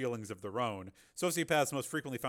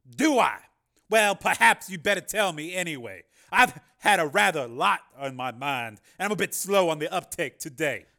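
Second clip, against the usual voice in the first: louder, higher, smug Carmen voice; mock innocent politician; 6 semitones higher, 11 dB louder than usual. A narrator's reading. Carmen toying with Jennifer, mock innocent. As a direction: play dumb with silky irony.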